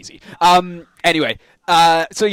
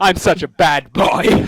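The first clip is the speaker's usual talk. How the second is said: mock Butters; much slower than usual. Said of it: "He's like".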